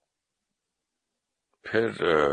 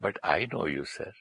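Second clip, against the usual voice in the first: lovingly, softly retold; 3 dB quieter, much slower than usual. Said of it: "बड़े प्यार से बोला".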